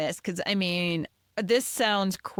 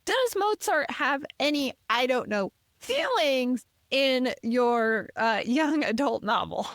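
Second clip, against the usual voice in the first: much higher, eager mock-excited voice; eager excitement; 6 semitones higher than usual. Reaching out to ask the author, much higher and eager. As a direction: squeal the question like an excited fan. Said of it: "I'm like".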